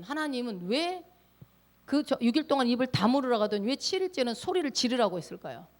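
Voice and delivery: ordinary delivery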